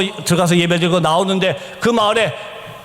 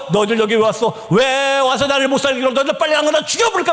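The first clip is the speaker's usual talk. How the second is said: quicker, milder replay of the threat; retold possessed shouting; 5 semitones higher than usual. Possessed sister threatening the team, retold hurried cry. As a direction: rattle off a possessed threat, rushing the end. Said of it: "막 소리 지르기 시작했습니다".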